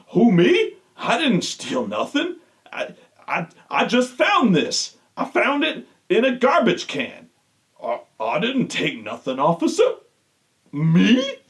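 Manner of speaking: lightly voiced, playing dumb when caught with the belt; a hint of a caught thief pleading innocence; mock innocent R-Truth. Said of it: "playing innocent when everyone's directly accusing him".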